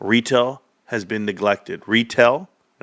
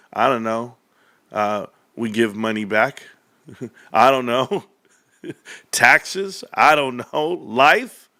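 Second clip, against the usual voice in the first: laughing shrug; slower than usual. Real, not acted. Laughing helpless replies.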